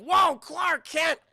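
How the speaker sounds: high, loud, drawn-out whoa; excited exclamation. Retold or imitated. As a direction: react with big fannish surprise. Streamer recalls exclaiming at name.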